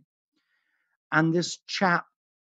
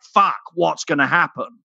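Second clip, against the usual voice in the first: mock suspense; 4 semitones higher, 6 dB louder than usual.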